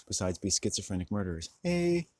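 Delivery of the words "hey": a sharp, much higher shout; sudden shout. Real, not acted. Vlogger breaking off with a loud shout. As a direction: yelp it out high and loud.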